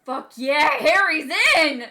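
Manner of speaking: loud, slow cheering shout; cheering crowd. Retold or imitated. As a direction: cheer it like a whole school. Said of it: "the whole school had been like".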